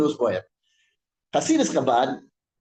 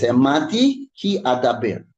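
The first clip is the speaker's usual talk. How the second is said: Hamanti ki adaber said slowly, each word weighed, a little louder; slow, deliberate recitation; 3 semitones lower, 4 dB louder than usual. Shown as a demonstration. Teacher quoting the verse to the class, slow and deliberate. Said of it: "he's gonna say it like this".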